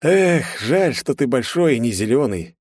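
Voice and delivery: high, eager excited sigh; childlike delight. A narrator's reading. Лёха teases Стенар about Yoda, with childlike delight. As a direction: gush like a kid. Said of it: "с детским восторгом".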